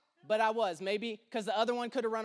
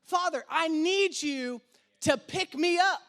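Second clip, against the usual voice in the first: pleading prayer; 3 semitones higher than usual. Acted. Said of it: "He's saying".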